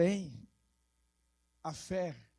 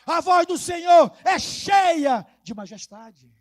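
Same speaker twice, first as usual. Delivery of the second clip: loud, higher proclamation with stretched key words; full-force preaching; 5 semitones higher, 14 dB louder than usual. Acted. Preacher proclaiming God's powerful voice to the church, full force. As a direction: thunder the psalm out to the church.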